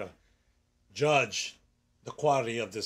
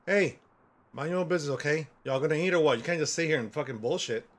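frustrated scolding. Acted. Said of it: "A little frustration".

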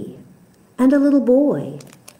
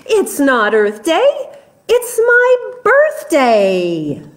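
monkey climbing much higher on birthday; excited monkey; 7 semitones higher than usual. Acted. Monkey boasting to the animals, high excited squeal. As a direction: squeal the last words up high.

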